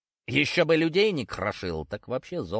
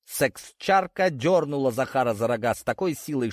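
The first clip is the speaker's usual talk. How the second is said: plain reading voice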